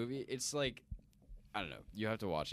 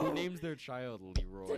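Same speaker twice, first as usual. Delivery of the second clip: slow and higher, laughing through the question; 6 semitones higher, slower than usual. Real, not acted. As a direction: ask it while laughing at the name. Amused by the name Leroy.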